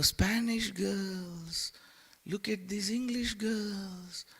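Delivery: soft, slow, coaxing temptress voice; tempting Maya. Retold or imitated. Maya tempting the soul to stay on this planet, slow seductive coax. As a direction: lure him softly to stay, like a siren. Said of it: "The Maya is".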